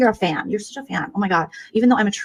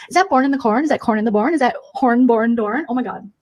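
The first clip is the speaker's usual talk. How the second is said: higher, catty influencer voice; mocking streamer impression; 6 semitones higher than usual. Mocking a streamer in a bee filter, catty and higher. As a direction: spoof a vain livestreamer, higher pitched.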